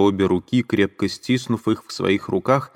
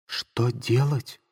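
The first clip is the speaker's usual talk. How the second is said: Sonya exclaiming; 5 semitones higher, 4 dB quieter, much slower than usual. Acted. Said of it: "воскликнула она".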